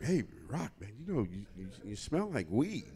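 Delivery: halting, awkward imitation of a polite complaint; hesitant confrontation. VIP hosts to Rock about the smell, tactfully hesitant. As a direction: broach it gingerly, stumbling over the words.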